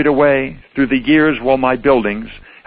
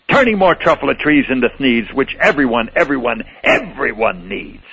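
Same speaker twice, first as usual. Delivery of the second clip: mock yelling. Onceler yelling back at the Lorax, defiant rant. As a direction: shout him down, mildly. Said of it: "I yelled at the Lorax".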